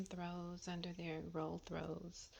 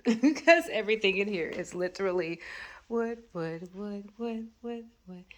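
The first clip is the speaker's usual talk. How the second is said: laughing exasperation; 3 semitones higher, 11 dB louder than usual. Real, not acted. Laughing at all the wood.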